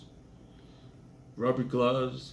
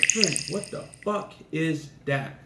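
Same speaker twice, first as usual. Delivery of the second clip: higher, slow, drawn-out fake outrage; mock shocked accusation; 6 semitones higher, slower than usual. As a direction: play up the disgust slowly to fool him. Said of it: "And I go in and I say".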